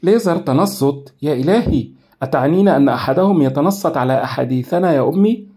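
stunned and frightened at the news; alarmed. A narrator's reading. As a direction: daughter horrified at being spied on, alarmed. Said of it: "في ارتياع وهي تقول".

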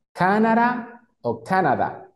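"Canadá" slowly, first with a tapped D, then with a plain D; dos formas de la D. Shown as a demonstration. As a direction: offer both D sounds in "Canadá", drawn out. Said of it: "la D la puedo convertir en D". ("Canadá" despacio, con las dos pronunciaciones de la D)

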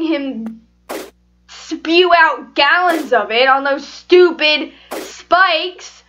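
exasperated rant with drawn-out words; infuriated. Real, not acted. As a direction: stretch the key words in frustration. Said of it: "I'm so infuriated".

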